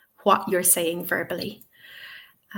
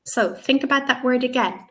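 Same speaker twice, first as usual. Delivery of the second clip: teacher prompting student; 5 semitones higher than usual. Shown as a demonstration. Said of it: "You might say".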